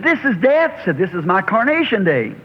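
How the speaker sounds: high exultant cry. Retold or imitated. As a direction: lift the voice in triumph. Moody's deathbed words retold.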